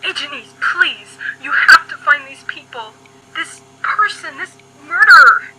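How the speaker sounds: rising to a loud, desperate cry on murderer; begging the agent, voice climbing to a shout; desperate plea. Acted. Mother begs the agent to catch the killer, building to a shout.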